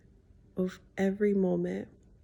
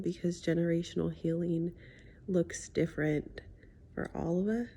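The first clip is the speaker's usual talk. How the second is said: wearing a retainer; 3 dB quieter than usual. Real, not acted. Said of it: "I have my retainer in".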